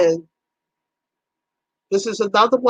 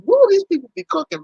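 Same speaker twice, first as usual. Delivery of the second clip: amazed whoa; 10 semitones higher than usual. Retold or imitated. Reacting to cooking videos.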